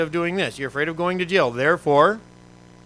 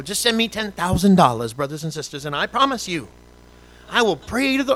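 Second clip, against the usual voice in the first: put-on televangelist Southern accent; 3 semitones higher, 4 dB louder than usual. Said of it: "why do they always have a Southern accent".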